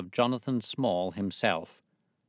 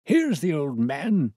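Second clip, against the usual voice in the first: triumphant reveal; 8 semitones higher, 8 dB louder, slower than usual. Acted. Holmes revealing disguise triumphantly.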